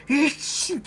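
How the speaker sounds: put-on high, petulant whine of a four-year-old; bratty child. A stubborn four-year-old throwing a fit, high petulant whine. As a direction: stamp it out like a spoiled kid.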